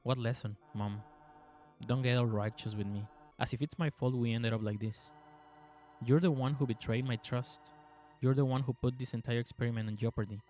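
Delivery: even, measured game narration; story narration. A narrator's reading. Player reading the game's story to viewers, measured narration. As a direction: read the tale out evenly, restrained.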